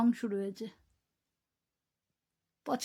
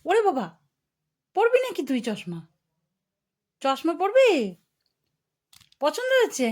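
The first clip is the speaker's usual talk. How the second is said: higher, louder playful coaxing; 5 semitones higher, 5 dB louder than usual. Real, not acted. Mother playing with baby. (উচ্ছ্বসিত আদুরে গলা)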